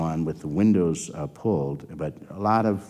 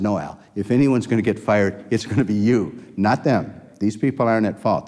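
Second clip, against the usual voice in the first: louder retold scolding; angry rebuke; 4 semitones higher, 4 dB louder than usual. Executive scolding the lab head over the patients, louder and firm. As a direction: come down hard on him, firmly. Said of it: "I am so angry right now".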